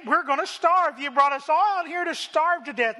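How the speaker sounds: hammed-up cry of we're gonna starve; mock whine. Israelites whining about starving.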